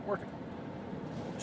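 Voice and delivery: breathy whisper, slow; whispered retry. Shown as a demonstration. Podcaster trying his catchphrase again in a whisper. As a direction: hush it right down. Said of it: "I'm working on it".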